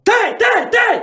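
high, sharp repeated yelps; mock tic outburst. Guest acts out his tic mid-story to hosts, high yelped outburst. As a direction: burst out in high staccato cries.

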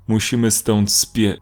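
abrupt break on "spie-"; cut off mid-word. A narrator's reading. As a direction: break off suddenly halfway through the word at "spie-". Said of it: "głos urwał się w tym samym momencie". (nagle urwane w pół słowa na "spie-")

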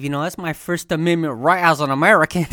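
lightly put-on redneck twang. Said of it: "Why'd you do the redneck voice there".

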